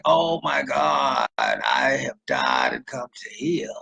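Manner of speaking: very slow, hammed-up wail; mock despair. Her reacting to the derelict's pickup lines, mock despair. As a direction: play the horror of being hit on.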